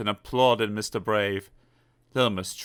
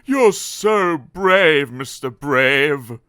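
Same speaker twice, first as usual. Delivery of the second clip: admiring Mister Messy; 4 semitones higher, 6 dB louder, much slower than usual. Acted. Mister Messy admires his rescuer.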